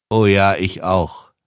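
slow words with a light laugh; laughing lightly. A narrator's reading. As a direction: chuckle it out, a touch rueful. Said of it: "lachte der Mann". (leise lachend, langsam)

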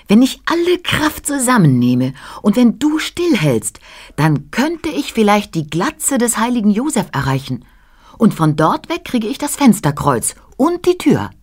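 hoch, gehaucht und heimlich; flüsternder Floh. A narrator's reading. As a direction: als Floh dem Kind ins Ohr flüstern. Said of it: "sagte er". (hohes, tonloses Flohflüstern)

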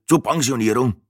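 put-on old tortoise-like Franconian. Old passenger explains his camera, Franconian accent. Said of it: "erklärte die fränkische Schildkröte".

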